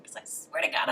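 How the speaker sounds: half-whispered retold threat; mock-menacing whisper; hushed warning. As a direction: hiss it under the breath.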